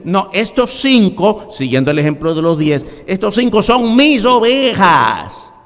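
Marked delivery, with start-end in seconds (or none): 0.0-1.5 voice of the Lord. Acted. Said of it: "Y entonces dice". 3.1-5.5 voice of the Lord. Acted. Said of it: "Y entonces dice".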